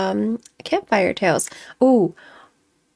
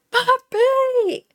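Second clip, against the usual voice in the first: high, drawn-out mock yell; calling out to wake; 13 semitones higher than usual. Retelling shaking Dad out of his nightmare, exasperated call. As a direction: call out shrilly to rouse a sleeper.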